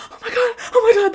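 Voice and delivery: high, loud, very fast inner squeal; panicked freak-out. Retold or imitated. Woman inwardly freaking out as her crush asks her out, panicking. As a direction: gush it out in a rush of panic. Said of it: "screaming, freaking out, panicking".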